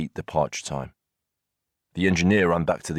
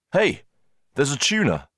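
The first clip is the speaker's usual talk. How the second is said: high, urgent yell; alarmed shout; 9 semitones higher than usual. A narrator's reading. Brakeman flinging himself into the cab to report, shouting.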